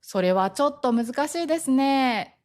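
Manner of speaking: gentle, polite turning-down; soft refusal. Shown as a demonstration. Declining so as not to offend, gently indirect. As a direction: decline without saying no outright. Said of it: "柔らかく断ります".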